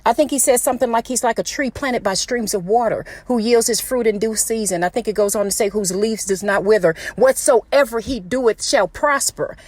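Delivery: ordinary talk, nothing marked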